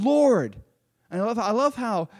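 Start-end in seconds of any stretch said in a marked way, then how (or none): 0.0-0.6 higher, imitated plea for help; crying out. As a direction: call out to him as a disciple in trouble. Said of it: "they cry out to him".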